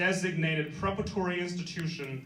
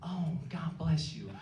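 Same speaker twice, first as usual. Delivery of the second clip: mock sweet lady, building higher and louder; gushing white lady; 5 semitones higher, 8 dB louder, slower than usual. Comic imitating white lady blessing a sneezing boy, gushing voice. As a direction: start drawn out, end in a high, loud coo. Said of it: "this white lady behind me, she kept going".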